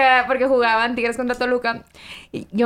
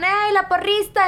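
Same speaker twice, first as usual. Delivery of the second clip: retold shout; 7 semitones higher, slower than usual. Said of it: "me gritan".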